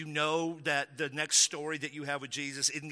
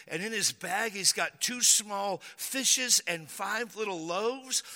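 higher, doubting disciple voice; doubtful disciple; 5 semitones higher, slower than usual. Acted. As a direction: offer the tiny lunch with a shrug of doubt. Disciple presenting the boy's lunch.

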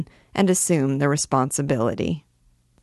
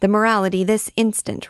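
mob shouting; 5 semitones higher than usual. Acted. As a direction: yell it at the stage. Mob repeats its demand.

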